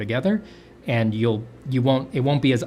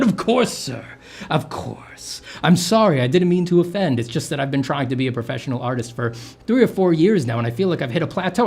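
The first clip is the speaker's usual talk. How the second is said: apologetic servant; 5 semitones higher, 4 dB louder than usual. Retold or imitated. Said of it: "obsequious servant kind of a coding".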